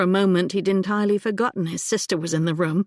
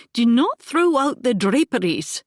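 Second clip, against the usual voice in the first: stern, louder call back; 5 semitones higher, 4 dB louder than usual. A narrator's reading. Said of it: "to call back sternly".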